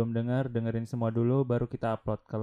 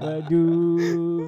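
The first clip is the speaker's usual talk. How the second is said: voice cracking; 5 semitones higher, 6 dB louder than usual. Pretend. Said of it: "Suaranya pecah".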